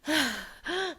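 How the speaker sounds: sharp imitated gasps of panic; panicked gasps. Mom showing her shot nervous system, panicked gasps. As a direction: gasp as if constantly on alert.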